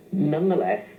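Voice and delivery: usual speaking voice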